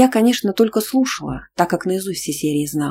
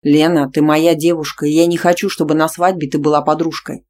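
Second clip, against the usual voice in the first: louder, firm insistence; insistent; 5 dB louder than usual. Acted. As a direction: press the point hard. Boyfriend insists.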